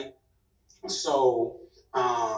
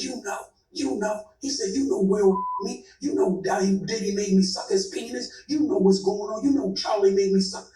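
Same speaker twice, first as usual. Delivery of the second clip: higher, pleading retold whimper; mock crying plea; 3 semitones higher than usual. Retelling the actor pleading to her, mock tearful. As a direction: imitate a man begging through tears. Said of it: "So he crying".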